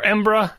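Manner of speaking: "Embra" in two syllables, "EM-bruh"; swallowed Scots pronunciation. Shown as a demonstration. Podcaster offering the alternative, swallowed pronunciation. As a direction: drop the middle of the name, just "Embra". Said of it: "make sure we say".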